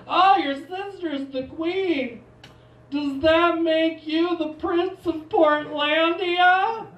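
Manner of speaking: high, slow, loud put-on voice; mock-impressed icebreaker; teasing acquaintance. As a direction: coo it slowly in a high, hammed-up voice. Acting people's icebreaker about his sister.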